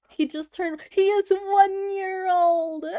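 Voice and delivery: high, loud, slow incredulous exclaim; drawn-out squeal of disbelief; mock outrage. Real, not acted. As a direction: play up the shock for chat.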